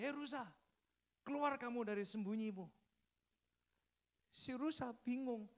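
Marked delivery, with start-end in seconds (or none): 0.0-2.7 high, raised voice, mock menace; acted tiger's loud summons; calling out as tiger. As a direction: order the prey out of hiding. Tiger calls out hidden deer.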